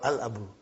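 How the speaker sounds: "Al Abu" low and soft, L sounded; pronunciation without waw. Shown as a demonstration. Teacher repeats the model, "Al Abu" with lam pronounced. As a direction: begin "Al Abu" on an open A, voice dropped. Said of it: "I'll pronounce it as".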